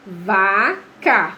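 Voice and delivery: "Vaca" split as Va... ca; teacher sounding out "Vaca" in two separate beats; syllable by syllable. Shown as a demonstration. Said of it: "É sílaba".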